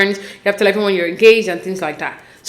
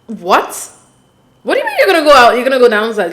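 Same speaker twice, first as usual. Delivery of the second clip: can't believe what he just did; incredulous vlogger reacting to a reality show groom; outraged disbelief; 4 dB louder than usual. Real, not acted. Outraged at the husband.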